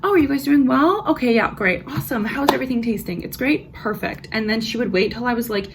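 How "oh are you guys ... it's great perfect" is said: bright, higher, peppy service voice; chirpy server voice. Retold or imitated. Server checking on her table, overly cheery. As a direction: put on the upbeat waitress act. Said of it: "I'd be like".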